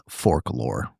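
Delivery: imitating a Southern drawl on folklore; low, mock Southern folklore; Southern accent. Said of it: "or as Dalton says".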